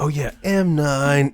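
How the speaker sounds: slow, dull soldier voice; dim-witted Snake voice. Retold or imitated. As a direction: say it like one brain cell left. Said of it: "He sounds like he has one brain cell".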